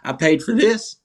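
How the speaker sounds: mock her outrage at being cheated; retold angry outburst. Old lady at meet and greet, indignant mock yell. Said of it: "gets so pissed".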